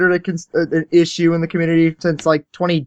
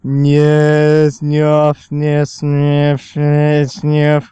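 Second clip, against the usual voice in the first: mock commentary voice; 5 semitones lower, much slower than usual. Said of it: "it's literally just".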